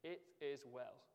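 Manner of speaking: "It is well" said slowly and gently, each word given weight; slow tender reading. Shown as a demonstration. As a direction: let "It is well" settle slowly, with quiet wonder. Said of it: "It's an amazing thing to say".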